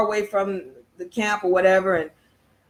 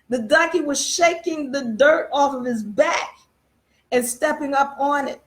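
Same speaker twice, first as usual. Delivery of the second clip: choked up; 3 semitones higher than usual. Real, not acted. Repeats the point, voice breaking.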